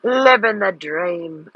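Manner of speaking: put-on slow, drawn-out Welsh accent; a Dick Van Dyke style Welsh accent. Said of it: "You sound like Dick Van Dyke when you do a Welsh accent".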